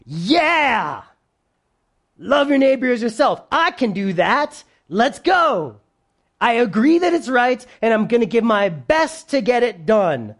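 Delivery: lightly voiced eager, self-sure pride; a touch of can-do gusto; confident pride. Pride answers the command to love, confidently. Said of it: "So pride would say".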